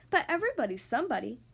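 quick, puzzled protest; astonished gasp. Acted. Mister Happy protesting to the stranger, astonished and quick. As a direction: object in mild astonishment. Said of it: "gasped Mister Happy".

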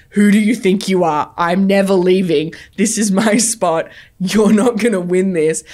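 loud, firm mock yell at the other driver; retold yelling. Woman in a car park yelling at a BMW driver, loud and firm. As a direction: firmly yell that you won't give up the spot. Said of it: "really yelling".

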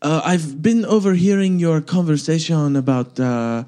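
hesitant, lightly hammed French accent; an American faking a slight French accent; fake French accent. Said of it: "it was like my French accent now".

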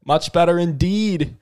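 put-on Aussie ad voice; mock Aussie pitch breaking into laughter; Australian accent. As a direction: sell it in Australian, cracking up. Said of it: "yeah, we'll do Australian".

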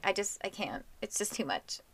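soft, drained mumble; defeated. Retold or imitated. To her cohost about the lost teddy, softly defeated. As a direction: let the words sag out of you, worn down.

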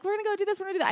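high, light quoting voice; imitated eager sharers. Imitating excited people sharing the video.

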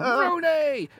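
high excited mock commentator yell; hammed-up commentator shout; commentator call. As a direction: call the name like a goal on TV.

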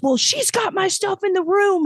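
high whiny excuse; a hint of a drunk guy; drunk guy whining. Drunk guest explaining to the manager, whiny. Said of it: "And he goes".

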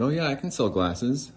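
chirpy overconfident job-interview yes; mock eager yes. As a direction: sell the lie with fake confidence. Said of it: "I just lied and said".

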